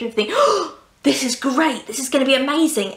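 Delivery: mock gasp, then rushed eager delight; a touch of hammed-up excitement; overexcited. Diarist suddenly thrilled by his plans, mock overexcited. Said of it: "so he gets very overexcited".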